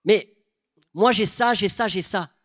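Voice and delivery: high, loud mock pleading; whiny complaint. Preacher mimics believers listing their problems to God, whiny and loud. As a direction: list your troubles like a needy believer. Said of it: "on vient en disant".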